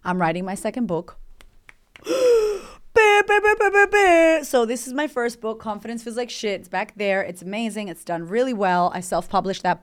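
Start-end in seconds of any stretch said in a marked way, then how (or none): 1.9-4.4 huge high loud gasp of excitement; excited gasp. Real, not acted. To listeners announcing her second book, excited gasp. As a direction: gasp like you can barely contain it.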